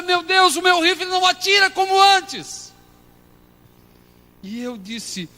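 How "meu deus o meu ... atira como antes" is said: high, loud anguished cry to God. Retold or imitated. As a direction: lament it like a weeping prayer. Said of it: "Eu comecei a chorar". (clamor choroso e alto a Deus)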